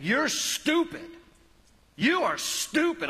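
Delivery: put-on high, bratty child's yell; whiny kid screaming at his mom in the aisle. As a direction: mimic a shrieking child insulting his mom. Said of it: "just yelling at his mom".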